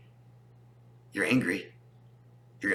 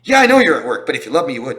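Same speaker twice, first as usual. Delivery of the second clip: mocking partner; 6 dB louder, faster than usual. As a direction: mimic the partner who won't take no. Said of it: "I hear this all the time".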